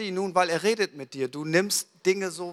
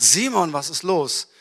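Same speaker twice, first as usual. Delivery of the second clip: mildly startled, the name swooping up and louder; 3 dB louder than usual. Acted. Startled wife answers her husband's shout, mildly alarmed. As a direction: act out a touch of fright. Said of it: "sie ist ganz erschrocken und sagt".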